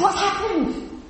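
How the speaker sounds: wide-eyed asking what happened; puzzled question. Retold or imitated. Quoting herself at the match.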